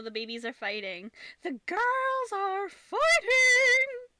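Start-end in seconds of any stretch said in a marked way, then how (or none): 1.4-4.1 high, loud alarmed call. Real, not acted. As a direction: yell out across the room. Cats fighting, calls out.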